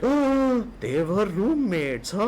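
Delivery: mock realisation.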